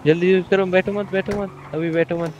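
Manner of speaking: pressing, insistent game command; urgent instruction. Real, not acted. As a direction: hurry your teammate along. Hurrying the other player along.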